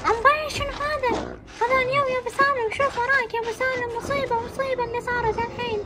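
a mother frozen at what she sees; horrified. Acted. Wife seeing the creature behind her husband, horrified.

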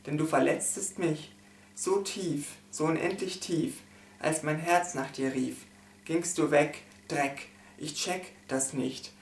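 solemn, measured poem reading with pauses; poem recitation. Acted. Reading a poem about a lost love, solemn recitation. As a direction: recite a mournful poem line by line. Reads second poem aloud.

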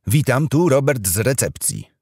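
high, loud receptionist over the intercom. Acted. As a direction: announce through the door speaker. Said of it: "oznajmił głos w domofonie".

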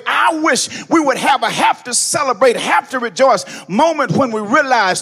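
loud, sung whooping sermon cadence; black church whoop, building and loud; preaching at full force. Acted. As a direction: ride the organ with a chanting preacher's cry. Preacher tuning again with organ.

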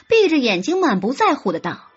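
usual speaking voice

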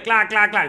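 loud imitated clacks of the scanner; machine clacking. Imitating the MRI machine's banging for viewers, loud clacks. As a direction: bang out the machine noise. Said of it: "empezaba a sonar".

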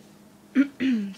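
stifled hiccup behind closed lips; swallowing a hiccup; suppressed hiccup. Real, not acted. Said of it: "Sorry, I have hiccups".

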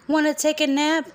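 high sweet cat voice. Acted. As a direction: purr it like a kitty. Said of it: "said the cat".

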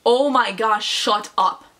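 loud, half-scale mock scream; retold scream. Friend screaming at night noises, imitated loud outburst. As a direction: call it out loud, short of screaming. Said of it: "Super loud".

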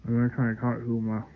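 slurred, numb lips after dental work; numb mouth. Real, not acted. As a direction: talk through a numbed mouth. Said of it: "My mouth is numb".

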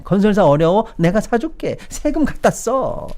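high-pitched, indulgent offer, slowing at the end; mock coddling. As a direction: play an over-generous patron, sarcastically. Mimics officials fawning over builders.

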